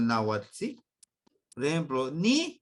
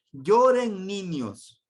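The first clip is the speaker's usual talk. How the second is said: slow, louder commanding "lloren niños"; 4 semitones higher, 6 dB louder, much slower than usual. Shown as a demonstration. Teacher acts out ordering children to cry, slowly. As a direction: give the children a firm order. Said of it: "Le estoy dando una orden que llore".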